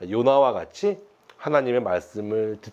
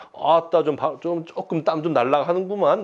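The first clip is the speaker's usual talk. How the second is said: Jeolla dialect; 4 semitones higher than usual. Retold or imitated. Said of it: "막 이런 그 느낌".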